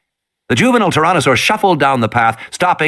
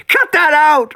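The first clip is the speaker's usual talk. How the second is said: angry yell; slower than usual. Acted. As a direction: yell it out as you're pinned. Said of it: "Regis yelled".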